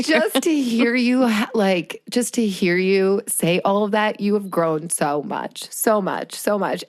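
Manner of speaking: trying to get words out through tears; fighting tears. Real, not acted. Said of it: "Now you're making me cry over here".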